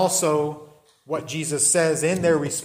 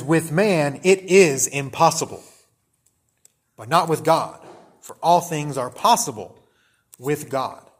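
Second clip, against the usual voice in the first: emphatic proclamation; 7 dB louder than usual. Acted. Preacher quoting Jesus to the congregation, firm and loud. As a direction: proclaim it so it lands. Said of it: "He says".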